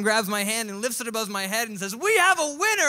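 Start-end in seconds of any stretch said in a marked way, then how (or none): 1.9-2.9 loud, high ring announcer cry; a booming victory call; winner announcement. Retold or imitated. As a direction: declare the champ to a roaring crowd. Trainer declares the winner.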